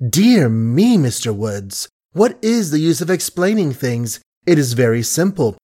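a wounded woman hiding behind mockery; mocking young woman. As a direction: toy with him, sweetly cruel. Peggy mocks Billy at length.

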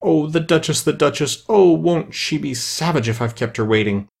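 a flustered little rabbit late for the Duchess; fretful rabbit muttering. A narrator's reading. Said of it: "muttering to himself as he came".

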